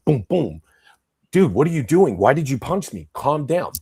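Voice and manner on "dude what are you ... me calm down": higher, louder alarmed pleading; mock pleading victim. Man being punched pleads with the attacker, higher and alarmed.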